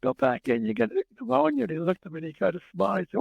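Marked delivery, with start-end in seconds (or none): 0.0-1.7 imitating a concerned yell; mild retold yell. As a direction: call out in exasperated protest, lightly acted. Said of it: "And I yell out".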